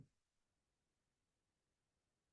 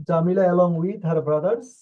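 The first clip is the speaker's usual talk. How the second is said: slow and a little louder, rising at the end; slow reading; 4 dB louder, much slower than usual. Shown as a demonstration. Teacher rereading the question slowly and louder to students. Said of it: "teacher rereads question slowly".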